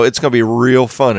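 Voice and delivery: mock-keen sarcasm, a little emphatic; sarcastic. Real, not acted. Player dreading the climb over his mountain, sarcastic. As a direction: pretend to look forward to it. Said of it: "I say that sarcastically".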